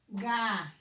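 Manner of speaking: "galho" as held ga, pause, lho; split into syllables. Shown as a demonstration. Teacher shows what the word becomes, syllable by syllable. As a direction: break "galho" slowly into two syllables. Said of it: "Então, vai ficar".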